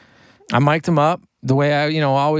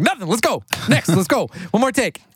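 hyped-up urging; 8 semitones higher than usual. Retold or imitated. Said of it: "I'm like".

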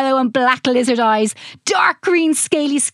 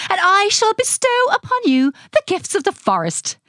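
higher, lightly airy royal promise; a touch of storybook fairy grandeur; airy fairy queen; 7 semitones higher than usual. Acted. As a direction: bestow it grandly, like a kindly queen. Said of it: "speaking in an airy voice".

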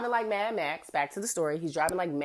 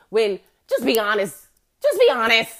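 louder, pressing; insistent; 3 semitones higher, 8 dB louder than usual. Retold or imitated. Tipsy narrator calling the cop out, louder and insistent. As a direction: push him to just say it. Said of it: "And I'm just like".

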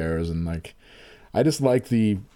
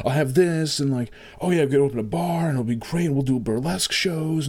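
frenzied scheming; 6 semitones higher than usual. Retold or imitated. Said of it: "frenzied scram".

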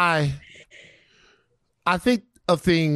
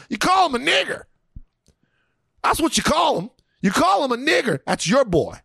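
mock angry ancestor. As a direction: rant as a grumbling, outraged forefather. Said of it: "their ancestors are up there super mad".

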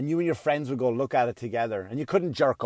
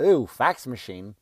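mocking millennial; 4 semitones lower, slower than usual. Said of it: "they'll go".

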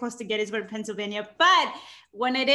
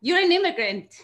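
emotional; 4 semitones higher, 4 dB louder than usual. Real, not acted. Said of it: "I'm getting a little emotional".

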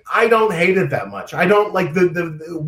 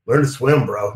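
mock bro advice; 5 semitones lower than usual. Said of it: "No, I don't know".

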